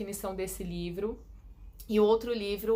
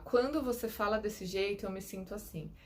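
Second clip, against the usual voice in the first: calm I-statement. Shown as a demonstration. Demo of the assertive alternative, said calmly. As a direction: own the feeling gently, without blame. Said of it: "ou você falar".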